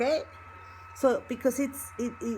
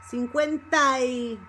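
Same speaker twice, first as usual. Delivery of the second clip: "cincuenta y" ending on a stressed "tai"; stress on joined syllable. Shown as a demonstration. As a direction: punch and hold "ta-y" in "cincuenta y". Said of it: "the emphasis goes".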